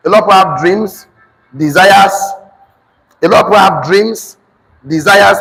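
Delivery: measured, emphatic dictation in short chunks; dictation to class. Real, not acted. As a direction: dictate firmly, phrase by phrase, for note-takers.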